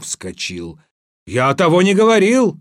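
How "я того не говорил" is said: high, loud, rapid denial; indignant cry. A narrator's reading. Ivan denies the boast to the tsar, indignant cry. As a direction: blurt it out in protest. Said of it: "закричал он".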